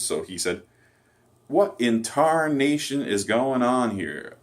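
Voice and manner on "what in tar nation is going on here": higher, louder, drawn-out hammy Southern outburst; mock exaggerated Southerner. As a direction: imitate a bad actor overdoing Southern exclamations, slowly. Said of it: "exaggerated Southern accent".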